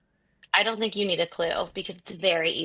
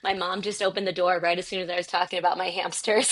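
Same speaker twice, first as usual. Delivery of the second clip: inside a closet. Real, not acted. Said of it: "I'm talking to you in the closet".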